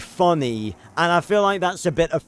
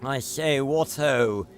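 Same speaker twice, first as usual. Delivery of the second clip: posh British accent. Shown as a demonstration. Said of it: "I can do that".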